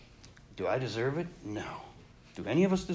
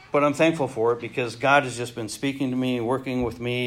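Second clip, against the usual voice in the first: tearful thanks; 4 semitones lower than usual. Real, not acted. Preacher moved while testifying.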